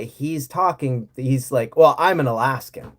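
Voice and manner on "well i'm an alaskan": imitated Southern accent. Georgian transplant claiming to be an Alaskan, imitated Southern accent. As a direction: put on a mild Southern accent. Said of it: "has a very clearly Southern accent".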